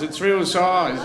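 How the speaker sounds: "It's real size" stretched out slowly and drily; slow, deadpan. Acted. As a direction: drag out "It's real size" with a dead straight face.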